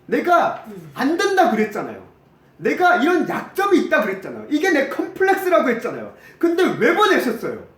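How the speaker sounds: high, loud protesting plea; aggrieved complaint. Acted. Moses protesting to God for sending him despite his weakness, aggrieved complaint. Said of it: "라고 하소연합니다".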